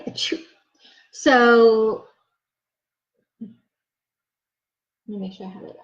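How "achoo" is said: soft mock sneeze, achoo; little pretend sneeze; sneeze sound. Shown as a demonstration. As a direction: act out a quiet sneeze. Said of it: "remember sneezing?".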